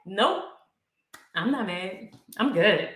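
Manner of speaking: feigning calm. Acted. Answering someone who asks if you're mad, feigning calm. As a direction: play at being totally fine. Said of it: "act like we're not mad".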